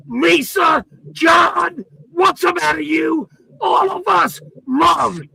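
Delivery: real angry ranting at the chat. Real, not acted. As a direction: shout it out like a fired-up rant. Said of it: "I'm not done ranting".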